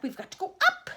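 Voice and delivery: high, loud insistence; yelling back. A narrator's reading. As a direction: shout back over the roar. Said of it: "Mister Wonka yelled back".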